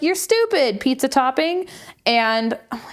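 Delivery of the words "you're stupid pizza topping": mimicked insult. Sister's insult retold.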